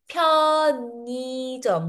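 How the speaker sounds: 편의점 stretched as pyeo-nii-jeom; linked pronunciation. Shown as a demonstration. Teacher shows the N moved back, linked pronunciation. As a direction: draw out 편의점 with n starting the second syllable. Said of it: "pinapunta siya sa likod".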